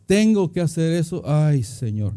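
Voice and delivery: lightly acted burdened complaint, falling to a sigh; mock reluctance. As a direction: grumble about a chore, pitch sinking at the end. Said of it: "Servirle al Señor no es". (queja resignada, un poco actuada)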